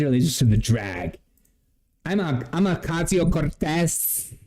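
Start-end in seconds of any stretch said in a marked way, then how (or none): 2.0-4.3 exaggerated Spanish pronunciation of the name; mimicking a showy Spanish accent; mock Spanish accent. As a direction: overdo the Spanish accent, slowly. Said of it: "I hate when people do that".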